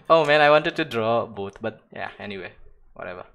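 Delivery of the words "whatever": British accent. Shown as a demonstration. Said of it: "That's my British ac-, accent".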